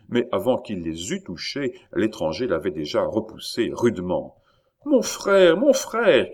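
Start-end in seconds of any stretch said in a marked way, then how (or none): 4.8-6.3 high, loud cry of alarm; cried out. A narrator's reading. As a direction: call your brother urgently, voice high. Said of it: "cria mademoiselle Chon". (cri d'alarme aigu)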